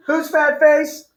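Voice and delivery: high, slow, outraged "whose fat face"; indignant question. Acted. Girl outraged at the insult, voice jumping high. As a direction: shoot up in pitch, offended. Acted quarrel from the story.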